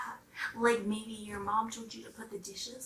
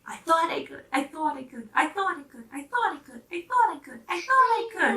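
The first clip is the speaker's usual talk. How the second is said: rhythmic, rising triumphant chant; proud little engine; 5 semitones higher, 6 dB louder than usual. Acted. Little blue engine puffing down the mountain, proud chant.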